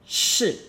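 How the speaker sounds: "Shi" high and falling sharply; angry fourth tone. Shown as a demonstration. Teacher introducing the next word, angry fourth tone. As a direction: punch "Shi" from high down, short. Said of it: "angry fourth tone".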